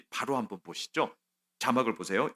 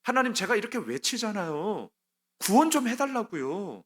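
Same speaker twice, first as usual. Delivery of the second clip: pleading cry to God; 3 semitones higher than usual. Retold or imitated. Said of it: "힘드니까 얘기합니다".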